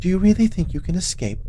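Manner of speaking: high taunting witch. Acted. Witch taunts escaping Grim.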